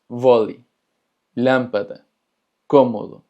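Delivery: closed stressed vowels in voli, lámpara, cómodo; vocal cerrada. Shown as a demonstration. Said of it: "se pronuncia más cerrado". (voli, lámpara, cómodo con vocal tónica cerrada)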